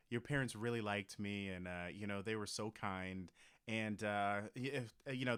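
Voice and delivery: soft, quiet mock girlfriend voice; playing the girlfriend. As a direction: purr it low and hushed as the woman. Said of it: "you be the woman".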